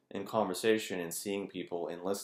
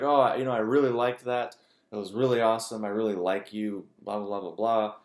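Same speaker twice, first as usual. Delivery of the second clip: gushing fan; 3 semitones higher, 6 dB louder than usual. Retold or imitated. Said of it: "people are like".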